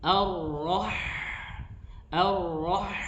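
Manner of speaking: Ar-Rah- with the ha sound let flow. Shown as a demonstration. Teacher drilling a recitation student, Ar-Rah- flowing. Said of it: "hak di situ perlu dialirkan".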